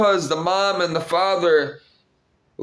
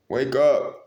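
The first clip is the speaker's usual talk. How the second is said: ordinary talk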